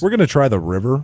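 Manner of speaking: dead calm, completely steady pilot voice. Imitating the pilot landing on the Hudson: calm Sully impression. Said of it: "That's how he sounds".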